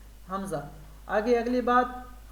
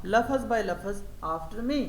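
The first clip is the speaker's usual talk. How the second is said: very slow, word-by-word classroom instruction; slow teacher model; much slower than usual. Shown as a demonstration. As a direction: lay out each word for the pupils. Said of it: "پھر آپ کہیں گے". (بہت آہستہ، لفظ بہ لفظ ہدایت)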